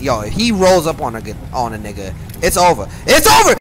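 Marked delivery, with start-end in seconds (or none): 2.4-2.9 loud, high hype yell; excited shout. Real, not acted. Hyping up the viewers, loud excited yell. Hyped reaction to game clip. 3.0-3.5 very high, very loud scream; full shout. Real, not acted. Hyping up the viewers, screaming at full force. Repeated louder hype yell.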